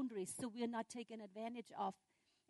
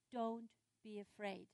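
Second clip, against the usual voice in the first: slow, softer comfort; reassuring; 6 dB quieter than usual. Acted. God's words to frightened people, calm reassurance. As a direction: soothe gently, taking your time. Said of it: "coming from the heart of God".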